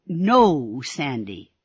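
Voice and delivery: slow, firm and loud correction; sternly. Acted. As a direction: set him straight, sternly. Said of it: "said Ramona sternly".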